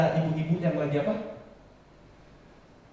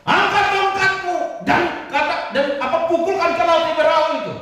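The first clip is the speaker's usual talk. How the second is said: much higher and louder stern command; God commanding; 12 semitones higher, 7 dB louder than usual. Acted. God commands Musa to use his authority, high and loud. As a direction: bark orders like a commander. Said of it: "Ini Tuhan, saudara".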